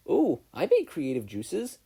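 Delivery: a proud mad inventor; butting in. A narrator's reading. May butting in with her rainbow drink, gleeful. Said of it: "May butted in".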